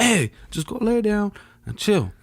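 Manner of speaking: high, soothing mom voice. Retold or imitated. Mom telling her son to go rest, high-pitched. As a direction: shoo him to bed, up high.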